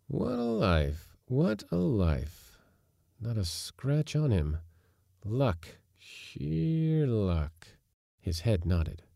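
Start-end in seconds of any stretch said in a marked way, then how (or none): 0.1-7.7 high, drawn-out satisfaction; contented. A narrator's reading. Castaway after breakfast on his good luck, contented. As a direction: savour it with long, lifted vowels. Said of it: "He nodded contentedly".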